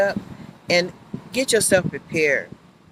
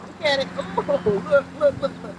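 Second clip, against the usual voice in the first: excited look; 7 semitones higher than usual. Real, not acted. Excited at moving leaf.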